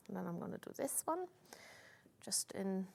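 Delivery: talking round something in the mouth; mouth full. Real, not acted. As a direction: speak with your mouth full. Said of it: "Don't speak with your mouth full".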